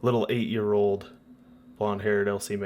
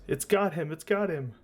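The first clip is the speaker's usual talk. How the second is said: put-on high, panicked child's voice; terrified little girl; 8 semitones higher than usual. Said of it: "all she's muttering is".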